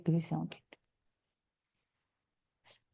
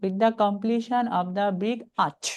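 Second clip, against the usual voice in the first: very slow but joined right through to arch; slow, connected teaching read; read as one phrase; much slower than usual. Shown as a demonstration. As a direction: keep the whole phrase together. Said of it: "মনে করতে হবে একসাথে".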